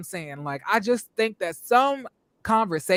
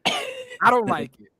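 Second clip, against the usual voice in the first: squealed dislike; slower than usual. Pretend. Exaggerated dislike of accent.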